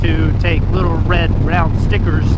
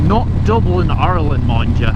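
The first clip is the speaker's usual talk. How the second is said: bad Irish accent. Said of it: "worst attempt of a Irish accent I've ever done".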